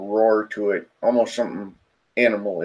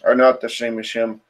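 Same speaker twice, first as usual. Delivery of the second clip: deep throaty spirit. Acted. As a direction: announce yourself like an ancient, animalistic spirit. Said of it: "in this deep, throaty voice".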